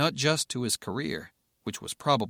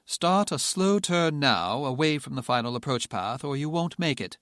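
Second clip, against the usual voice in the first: radio controller voice; 3 semitones higher than usual. Acted. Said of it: "the tower controller called".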